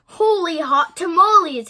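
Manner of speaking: high, loud astonished exclamation; exclaiming. A narrator's reading. Kitty boy shoots past his reflection, exclaiming. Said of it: "exclaimed Skippy John Jones".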